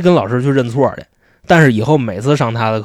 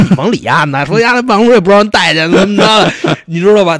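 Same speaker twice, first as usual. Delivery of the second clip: gossiping teacher; 7 semitones higher, 4 dB louder than usual. Retold or imitated.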